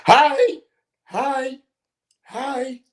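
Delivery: high, loud, sing-song repeated hi; mock Jericho greeting. Mocking Jericho's catchphrase to his cohost, in a high squeak. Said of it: "that'll get me canceled".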